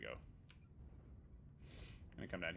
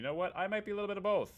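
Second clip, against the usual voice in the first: playful excitement; 11 semitones higher, 6 dB louder, faster than usual. Real, not acted. Playful admission.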